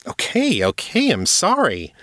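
high-pitched, startled apology; taken aback. A narrator's reading. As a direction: back off fast, voice jumping up high. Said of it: "shocked at her reaction".

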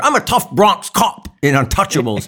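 high, loud Scottish tough-cop impression; Sean Connery. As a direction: announce it in a hammed-up Scottish accent. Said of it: "Sean Connery kept the same accent his entire career".

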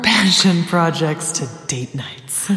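slow, put-on seductive read; sultry voice. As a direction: purr it out, half-laughing. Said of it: "my porno voice".

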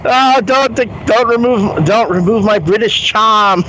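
lightly voiced British house computer; British accent. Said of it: "then he starts talking in a Bronx accent".

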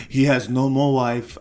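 slow, low imitation of Trump; lightly voiced Trump, drawn out; Trump impression. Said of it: "this is Trump talking about Katie Holmes".

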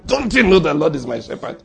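mock-indignant retort to the pocket; quarrelling. Shown as a demonstration. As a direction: argue back as if scolding your wallet. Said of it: "Quarrel if you like".

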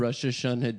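Rosh Hashanah with a short "rush" opening; Hebrew-style pronunciation. Real, not acted. Telling friends about dinner with his parents, Rosh said like "rush". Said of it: "Why do you have to say it like that?".

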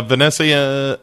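name drawn out in a put-on Mediterranean accent; mock Mediterranean accent. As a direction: roll out the name with a playful Mediterranean lilt. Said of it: "somehow made you more Mediterranean".

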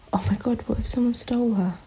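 hushed, unvoiced mock worry; whisper. Owner whispering mock dread that someone steals the dog. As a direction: whisper the fear as if it might come true.

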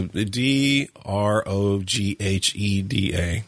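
slow, letter by letter; spelling it out. Real, not acted. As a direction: spell each letter slowly. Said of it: "I don't know".

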